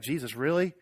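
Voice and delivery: mock disbelief rising high on you; hammed-up disbelief from the disciples; incredulous disciples. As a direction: disciples scoffing at Jesus. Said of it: "the disciples are like".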